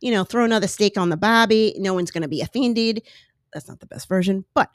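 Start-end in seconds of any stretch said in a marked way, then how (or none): 0.2-1.8 rough attempt at an Australian accent. Shown as a demonstration. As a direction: put on an amateur Aussie accent. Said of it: "if I do an Australian accent".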